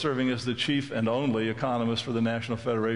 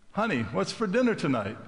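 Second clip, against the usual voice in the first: calling out; 7 semitones higher than usual. Retold or imitated. Husband asks again, closer.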